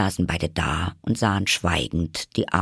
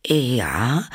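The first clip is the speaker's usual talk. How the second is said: high, hesitant Alice; a drawn, uncertain yes, pitched up; unsure; 6 semitones higher, 3 dB louder than usual. A narrator's reading. Alice is asked what starving means, unsure. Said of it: "sagte Alice unsicher".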